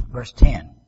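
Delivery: hushed, breathy verse call; whispered aside; stage whisper. Shown as a demonstration. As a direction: whisper the verse number to the room. Repeats verse number in a whisper.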